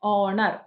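ഓണർ with a loud first vowel; stress on first syllable. Shown as a demonstration. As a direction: punch the "ഓ" in ഓണർ. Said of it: "stress on the first syllable".

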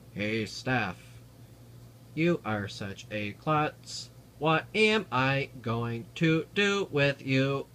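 flat, slow robot voice. Pretend. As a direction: talk like a speech synthesizer. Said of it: "robot voices that Stephen Hawking uses".

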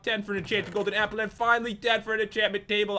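running out of breath after a long list. Real, not acted. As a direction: gasp through the last items, short of air. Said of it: "I'm running out of breath".

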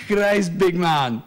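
put-on high-pitched, incredulous Scottish accent; mock a gobsmacked Scottish trucker; Scottish working-class man. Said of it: "looked back at me and went".

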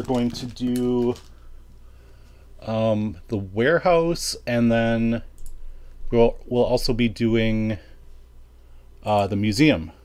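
slow, sleepy groggy voice. Real, not acted. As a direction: talk like you just woke up groggy. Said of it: "I'm still kinda groggy yet".

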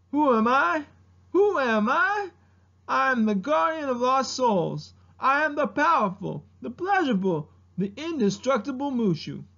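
high, grandiose self-introduction; Mushu. Acted. Guardian of lost souls announcing himself, high pompous impersonation. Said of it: "doing an impersonation of Mushu".

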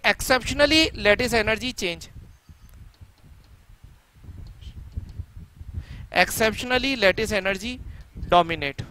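slow, spaced-out dictation of a note. Real, not acted. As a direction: dictate it slowly, phrase by phrase. Dictating the answer for students to write.

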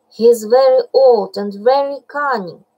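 hopeful. Acted. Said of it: "said Baloo hopefully".

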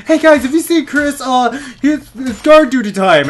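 high, chirpy mock-comrade voice; put-on comrade voice. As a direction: call out in a silly high voice. Acts out comrades looking for Chris.

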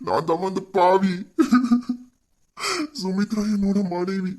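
slow, heavy guilty admission; slow grief-stricken confession; remorseful confession. Acted. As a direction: confess it slowly, weighed down. Confessing guilt over his wife.

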